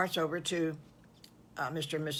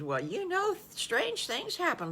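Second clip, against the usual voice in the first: knowing tease; 11 semitones higher than usual. Acted. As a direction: let her secret peek through. Farm wife teasing the wolf.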